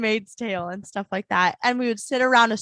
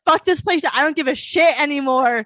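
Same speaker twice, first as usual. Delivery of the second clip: mock defiant outburst; 3 semitones higher, 6 dB louder than usual. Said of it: "I said".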